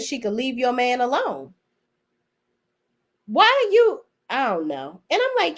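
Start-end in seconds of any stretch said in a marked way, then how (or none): 3.3-4.0 exasperated question. Real, not acted. Exasperated at Kat.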